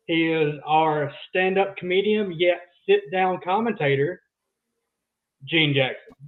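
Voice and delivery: slow, drawn-out ring-announcer build-up; announcer introduction. Acted. Introducing the third host to the audience, slow announcer delivery. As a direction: announce the guest slowly, phrase by phrase.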